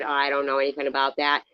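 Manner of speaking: fast dismissive quote; mock quick dismissal; quick brush-off. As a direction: rattle it off to shut it down. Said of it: "And I said".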